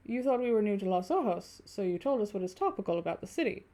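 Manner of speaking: lightly voiced German-accented stranger; measured German-accented speech. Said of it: "do the other German accent".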